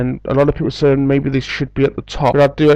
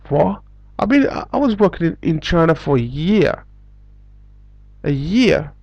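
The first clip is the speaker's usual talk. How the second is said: high, fast disbelief at being told no; rising indignant what, I worked there a year; incredulous; 3 semitones higher than usual. Retold or imitated. Retelling his shock to viewers, incredulous.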